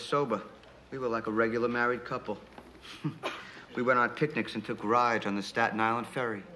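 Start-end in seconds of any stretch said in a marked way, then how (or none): 2.9-3.7 short, breath-only laugh; soft chuckle. Real, not acted. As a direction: let out a small quiet chuckle. Chuckles at married life memory.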